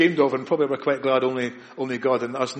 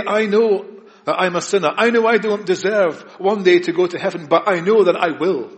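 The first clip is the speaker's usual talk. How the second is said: confident believer; 3 semitones higher, 4 dB louder than usual. Acted. Believer voiced with assurance.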